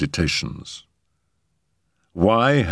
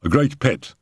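lightly voiced servant, a little higher; footman; 4 semitones higher, faster than usual. Footman reporting on the cat to a gentleman, deferential.

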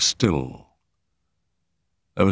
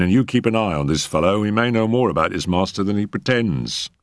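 brisk inspector; 2 semitones higher than usual. Acted. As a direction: hurry off with brisk authority. Inspector voiced in story.

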